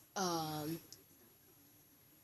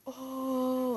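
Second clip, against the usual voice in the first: higher, louder drawn-out crowd "ooh"; class-wide taunting "oh"; 8 semitones higher, 5 dB louder than usual. Retold or imitated. Whole class reacting to her sushi insult, mock crowd jeer. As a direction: imitate a classroom reacting to a burn.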